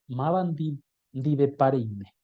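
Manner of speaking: "Mabandi dive parime" said slowly, syllable by syllable; slow model pronunciation. Shown as a demonstration. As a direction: spell it out slowly for the class. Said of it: "correcta de pronunciar".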